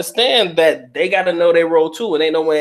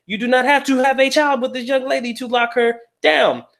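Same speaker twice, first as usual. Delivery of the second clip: raised, emphatic restatement; emphatic repeat; 7 semitones higher than usual. Real, not acted. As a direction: say it again higher, hammering it home. Repeats point with more emphasis.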